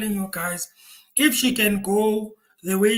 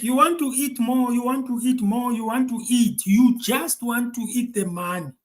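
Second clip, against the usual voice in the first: mildly heated, slightly raised mock accusation; angry retelling; 2 semitones higher than usual. Relaying an angry woman scolding officials over money, mildly angry. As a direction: retell her anger with a touch of indignation. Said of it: "She is angry, guys".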